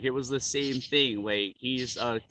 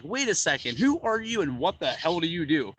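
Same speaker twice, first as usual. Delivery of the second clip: higher-pitched, mock-astonished questioning; imitating stunned disbelief; 4 semitones higher than usual. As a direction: act out a jaw-dropped fan. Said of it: "jaw dropped".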